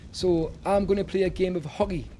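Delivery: hockey with a throaty g-like sound in the middle; northern hockey. Shown as a demonstration. Streamer showing chat how the north says hockey, throaty. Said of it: "But we say hockey".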